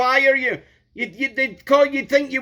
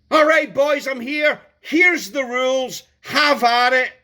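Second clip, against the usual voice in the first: mock cold lecturer. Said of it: "cold, emotionless lecturing".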